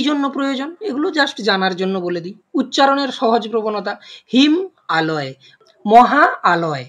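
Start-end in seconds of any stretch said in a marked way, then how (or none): 4.3-6.8 laboured split. Shown as a demonstration. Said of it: "যেন শ্রম ব্যয় করতে হচ্ছে".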